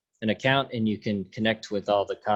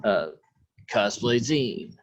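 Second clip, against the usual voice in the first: announcer voice. Pretend. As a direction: draw it out like a show's narrator. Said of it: "keep the announcer voice in".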